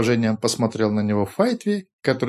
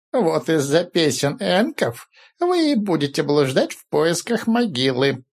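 slow, ominous soothsayer voice; prophetic trance voice; 4 semitones higher than usual. Acted. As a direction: intone it like a seer's warning. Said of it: "голосом прорицателя сказал О Каролан".

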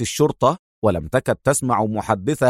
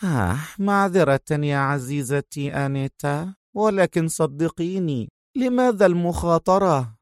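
mocking apology; 5 semitones higher than usual. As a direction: whisper a false sorry to the dead. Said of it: "تبتسم في سخرية".

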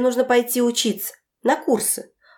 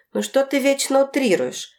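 exasperated; 6 semitones higher than usual. A narrator's reading. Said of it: "сплеснула руками Ольга Петровна".

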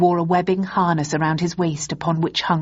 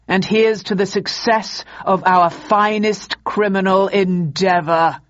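booming ideological slogans. Acted. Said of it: "I feel a speech coming on".

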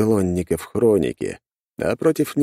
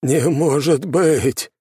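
higher, louder, slow despairing cry; 9 semitones higher, 4 dB louder, much slower than usual. A narrator's reading. Темус despairs at ruined fortress.

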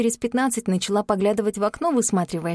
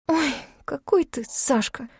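со вздохом; 6 semitones higher than usual. A narrator's reading. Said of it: "вздохнула я".

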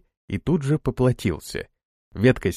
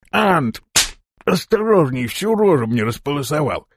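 angry yell; 3 semitones higher than usual. Acted. Torval yelling at Anton after a branch whips his face. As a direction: yell at him after the branch hits you.

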